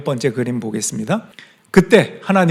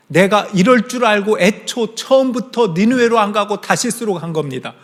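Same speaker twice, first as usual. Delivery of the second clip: angry complaint. Retold or imitated. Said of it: "요나는 화가 났어요".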